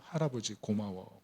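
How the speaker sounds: 느리고 조용하게, 울먹이듯 흉내 내며; 목이 메는 듯 천천히 가볍게; 복받친 고마움. Retold or imitated. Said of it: "막 소름이 복받쳐서". (할아버지에게 안기며 눈물 흘리는 손녀, 울먹이는 말투)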